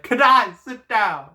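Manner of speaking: high loud command; yelling Kitai. Shown as a demonstration. Dad ordering his son to sit, loud shout.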